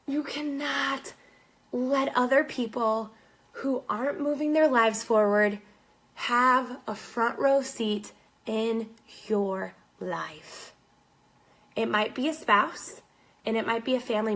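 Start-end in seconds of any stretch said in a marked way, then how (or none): 0.0-10.7 much softer and slower, intimate; sincere hush. Real, not acted. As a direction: lean in and speak it close. Sincere direct plea to listeners.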